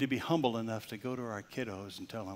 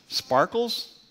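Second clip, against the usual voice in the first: higher and louder, rising; surprised question; 11 semitones higher, 9 dB louder than usual. Retold or imitated. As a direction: ask it in disbelief. Mock surprise at salon name.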